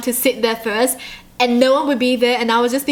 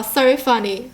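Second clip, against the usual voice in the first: fake deadpan laugh. Fake texting laugh, straight face.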